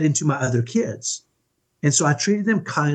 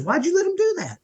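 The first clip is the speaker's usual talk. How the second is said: higher-pitched mock mom, accusing; imitating annoyed mom; 14 semitones higher than usual. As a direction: play the irritated mother catching dad out. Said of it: "Then Mom says".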